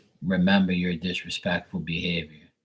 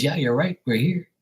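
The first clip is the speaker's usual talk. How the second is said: lightly voiced elderly lady agreeing, pitched higher; imitating the old mom; 8 semitones higher than usual. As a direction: echo her words as the old lady would. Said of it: "She goes".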